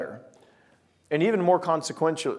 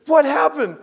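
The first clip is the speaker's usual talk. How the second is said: high, loud incredulous question; acted alarmed shout; 13 semitones higher, 6 dB louder, slower than usual. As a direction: demand it loudly in disbelief. Alarmed at friend still in bed.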